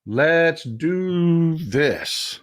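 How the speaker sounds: "Let's do this" stretched very slow, each word weighted; slow, drawn out. Shown as a demonstration. Host rallying his viewers to fight, very slow and drawn out.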